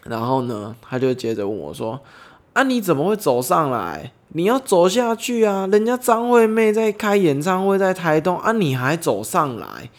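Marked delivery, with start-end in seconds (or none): 2.5-9.9 much higher and louder teasing exclamation; playful mock shock. Driver teasing the hitchhiker for walking the wrong way, mock shocked. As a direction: act half shocked, half joking. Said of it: "戏闹的腔调跟不知道到底是震惊还是在跟我开玩笑的口气".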